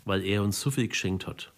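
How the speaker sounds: Psalm recited in Franconian dialect. Shown as a demonstration. Pastor reciting his favourite psalm, in Franconian dialect. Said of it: "So klingt der Psalm achtundneunzig auf Fränkisch".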